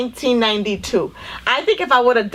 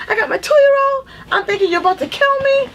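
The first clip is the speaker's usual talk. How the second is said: retold yelling. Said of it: "I started yelling at the cop".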